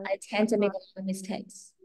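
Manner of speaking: polished model reading. Shown as a demonstration. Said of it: "Nghe khác hẳn luôn".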